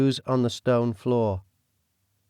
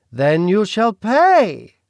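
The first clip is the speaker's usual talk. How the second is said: British villain voice; 9 semitones higher, 7 dB louder, much slower than usual. Acted. The Duke speaks.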